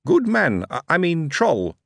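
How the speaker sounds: put-on high chirpy young clerk; bright, quick recruiting officer; high eager Billy voice. Billy stumbles.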